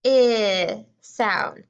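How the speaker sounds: I held long as "ih", then a pause; short vowel demo. Shown as a demonstration. Teacher confirming the vowel in chip, stretched short I. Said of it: "I hear the".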